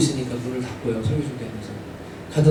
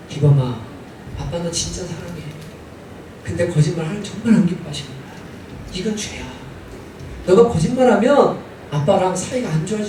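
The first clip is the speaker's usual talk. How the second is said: a hint of a gentle father, softer; tender father; 3 dB quieter than usual. Father comforting his son after the spanking, gently. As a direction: soothe him and say you love him.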